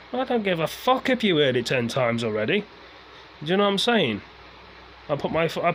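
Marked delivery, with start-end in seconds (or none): 0.1-4.2 heated, raised outburst of annoyance; real anger. Real, not acted. Ranting to viewers about people who say move on, angry outburst. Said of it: "I, I am annoyed".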